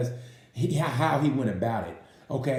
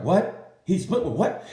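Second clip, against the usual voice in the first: a surprised, higher "what?"; mock shocked disbelief; 5 semitones higher, slower than usual. Crew chief hearing of the split, in mock shocked disbelief. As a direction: act out hearing the news in disbelief. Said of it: "Furcada's like".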